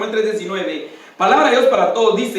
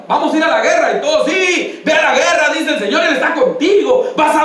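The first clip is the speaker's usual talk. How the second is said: mock court prophets; 5 semitones higher, 4 dB louder than usual. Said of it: "Cuando llegaron".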